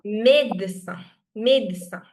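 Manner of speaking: médecin with A first, second E barely sounded. Shown as a demonstration. Teacher correcting students' médecin, first E as A, second reduced. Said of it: "the first E has this accent".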